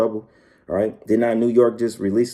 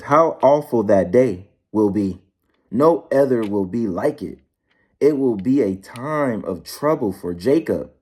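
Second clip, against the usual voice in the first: scripture reading; slower than usual. Acted. Reads scripture in slow preaching cadence.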